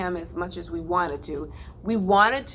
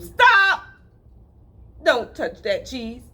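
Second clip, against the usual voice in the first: city mouse screaming; 3 semitones higher, 5 dB louder, slower than usual. Acted. City mouse warns country mouse off the cheese, shouting. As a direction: shout stop to save him. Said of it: "the city mouse screamed".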